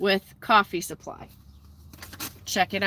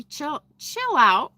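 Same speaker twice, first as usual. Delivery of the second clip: over notification pings; 5 semitones higher, much slower than usual. Real, not acted. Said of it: "Oh, you can hear my notifications".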